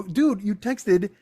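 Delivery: retold indignant objection; indignant quoting back. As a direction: throw his words back at him. Confronts friend, quoting his text back.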